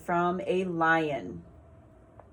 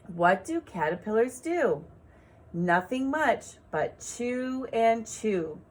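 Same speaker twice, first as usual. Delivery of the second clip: put-on slow, sing-song poem reading for children; gentle teacher reading a poem; poem read aloud. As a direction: read it like a rhyme for little ones. Rereads poem for rhymes.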